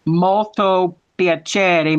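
very slow Italian accent; drawn-out Italian phrase for a learner; Italian accent demonstration. Shown as a demonstration. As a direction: teach it in stretched-out Italian. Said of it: "can I ask you again what that means".

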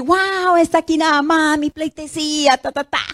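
mock herald. Preacher mocks the grand welcome Naamán wanted, pompous herald. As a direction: announce the guest with pompous fanfare. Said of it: "y decir".

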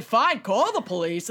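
put-on lightly accented New York retort; attempted New York accent. Driver calling the man's bluff, mild New York accent. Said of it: "I can't do a New York accent".

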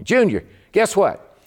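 high, slow, teasing build-up; excited sister. Retold or imitated. His sister teasing him with big news, high and excited. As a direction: dangle the news, bubbling over.

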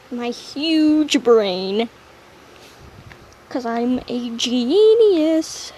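slow, drawn-out brag; hammed-up self-praise; mock boast. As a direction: puff up like a fake genius. Mock bragging about brain.

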